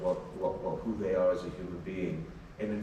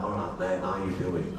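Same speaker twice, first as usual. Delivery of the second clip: put-on northern English accent; 4 semitones lower than usual. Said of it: "More like".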